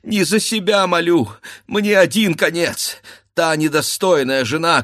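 put-on a wife begging for her child's sake; wife begging her husband to spare himself; desperate pleading wife.

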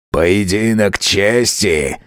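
slow, rough hoarse rasp; rough rasp announcing a duel. A narrator's reading. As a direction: grind it out coarse and hoarse. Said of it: "хриплым и грубым голосом".

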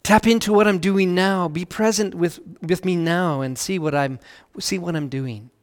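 tender, hushed invitation; soft voice of God. Retold or imitated. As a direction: let it drop to a hush, not a true whisper. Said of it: "he whispers so softly".

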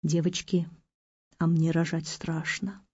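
soft, timid confession of fear; quiet, scared little plea; plaintive whisper. A narrator's reading. Pregnant Natasha confides her fear to the girls, plaintively. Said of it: "вдруг жалобно прошептала Наташа".

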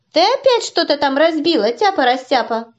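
mom calling from the kitchen; calling from another room. Acted. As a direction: scold loudly, as if from afar. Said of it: "закричала мама из кухни". (мама кричит из кухни, издалека)

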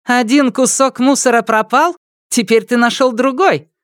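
high, taunting schoolgirl voice; mocking. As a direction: sneer at him. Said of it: "насмешливо произнесла Мана".

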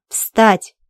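loud harsh command; barked order. Acted. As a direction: snap her to her feet. Repeated order to stand.

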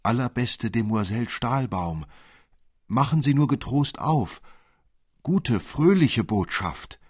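a tiny, bright piping call through the door; fine little voice. Acted. Nutcracker calls to Marie through the door, in a high little voice. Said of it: "ein feines Stimmchen".

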